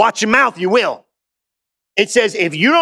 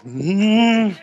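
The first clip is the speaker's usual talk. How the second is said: closed-mouth hum. Pretend. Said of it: "Just walk around and go".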